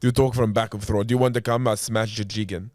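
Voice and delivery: throaty put-on Russian; Russian accent. Shown as a demonstration. Co-host practising the accent, throaty Russian accent. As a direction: talk Russian from the back of the throat. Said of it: "how do you do Russian accent".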